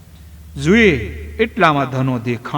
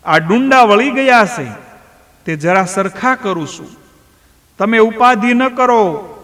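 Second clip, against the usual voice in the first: higher, gentle voice of the son from the field; Dhano's voice; 8 semitones higher, 4 dB louder than usual. Acted. Dhano's voice from the field tells his father to rest, higher and gentle. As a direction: reassure the father he can go home.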